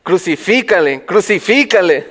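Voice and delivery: lightly imitated crowd cry; retold mob chant; mock crowd shout. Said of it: "la gente empezaron a gritar".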